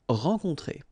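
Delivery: "Rencontrer" said at normal speed with both nasals; normal-speed model. Shown as a demonstration. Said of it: "O N, on".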